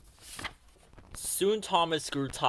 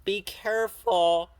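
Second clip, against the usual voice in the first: higher and louder, slow warning shout; 6 semitones higher, 5 dB louder than usual. A narrator's reading. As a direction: shout it after him as he leaves. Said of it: "shouted after Thomas".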